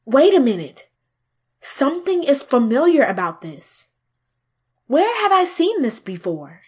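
sudden suspicion. Acted. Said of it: "Antasca wondered".

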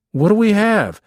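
put-on high, loud boyish whine; whining child. Hungry boy badgering big brother, whining. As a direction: pester loudly in a high voice. Acted quarrel over food.

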